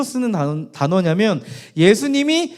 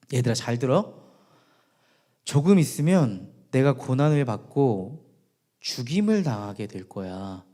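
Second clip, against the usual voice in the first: low, measured, softer voice; quiet, low gravity; grave foretelling; 7 semitones lower, 4 dB quieter than usual. Acted. Jesus voiced, foretelling his death.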